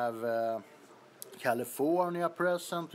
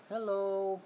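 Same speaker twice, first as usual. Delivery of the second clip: little brother voice; 4 semitones higher than usual. Pretend. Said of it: "Say hello".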